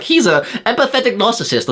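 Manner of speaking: high, prissy mock of pseudo-psychology; high, put-on know-it-all voice; mocking critic. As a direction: sneer at the big words.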